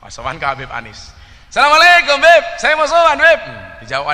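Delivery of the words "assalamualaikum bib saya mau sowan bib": high, loud Madurese greeting; Madurese visitor. Retold or imitated. Madurese visitor greets Habib Anis, loud Madurese accent. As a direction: call out the greeting like a Madurese guest. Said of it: "Ini ada orang Madura sowan".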